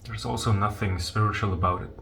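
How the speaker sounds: soft, unhurried meditation guidance with long pauses; guided meditation. Real, not acted. Teacher guiding listeners to leave their thoughts alone, calm meditation voice. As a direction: gently guide listeners into letting go.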